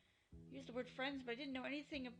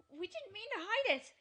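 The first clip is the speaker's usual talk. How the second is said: anguished cry; 10 semitones higher, 8 dB louder than usual. Acted. Friends accused of hiding things.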